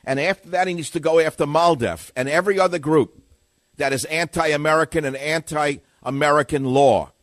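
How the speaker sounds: forceful talk-radio tirade; loud demand. Real, not acted. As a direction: hammer the demand home. Heated rant demanding action.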